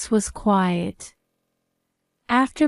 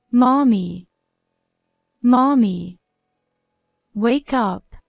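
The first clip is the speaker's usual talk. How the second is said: put-on screaming child; 3 dB louder than usual. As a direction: scream for mommy to wake. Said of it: "Ethan screaming".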